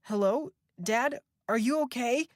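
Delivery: high, loud squeaky phone voice. A narrator's reading. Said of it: "Beth's voice squeaked from the phone".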